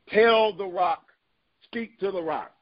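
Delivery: slow, leaned on "Tell the rock"; stress on tell. Shown as a demonstration. Preacher pressing the congregation on the command, slow and stressed. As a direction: drive home "Tell" slowly. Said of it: "What was God's instruction?".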